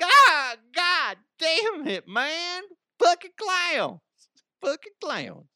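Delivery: high, drawn-out comic wail at a clown; exaggerated spooked squeal, fading on the repeat; mock freak-out. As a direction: cry out in hammed-up horror, slow and very high. Acted reaction to creepy clown.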